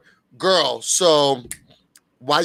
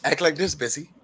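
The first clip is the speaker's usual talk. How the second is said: soft mentor voice; 4 semitones lower, 7 dB quieter than usual. Retold or imitated. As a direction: ease the words out gently. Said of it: "she taught me".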